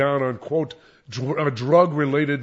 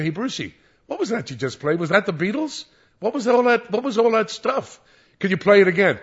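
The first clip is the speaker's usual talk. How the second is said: excited caller; 6 semitones higher than usual. Retold or imitated. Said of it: "And they say".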